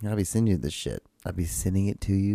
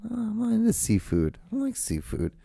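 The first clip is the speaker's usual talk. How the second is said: high mocking voice; 13 semitones higher, 4 dB louder than usual. Mock high voice.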